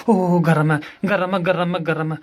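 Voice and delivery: startled yelp at the hot water, then settling; ouch it's hot. Real, not acted. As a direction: jerk back from hot water, repeating it.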